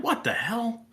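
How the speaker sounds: high, astonished what the hell; stunned disbelief. Retold or imitated. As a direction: blurt it out in shock. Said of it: "I was like".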